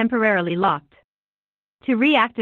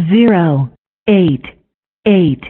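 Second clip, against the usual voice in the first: spliced digit readout; 2 semitones lower, 3 dB louder, slower than usual. Acted. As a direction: separate recorded number clips, each falling. CVV digits read one by one.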